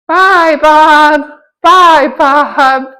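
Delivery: lightly voiced ride character's farewell. Ride character bidding each rider farewell, lightly imitated. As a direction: imitate a repeated ride goodbye, names drawn out. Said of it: "sometimes E T works, and then it's like".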